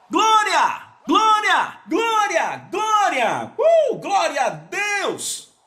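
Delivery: rapid string of high cries with a whoop; shouted praise. Real, not acted. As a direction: keep firing off glória, high and exultant. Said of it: "Eles gritam glória".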